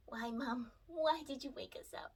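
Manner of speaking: lightly voiced grumpy pet; a hint of a drowsy complaining pet; sleepy ferret voice.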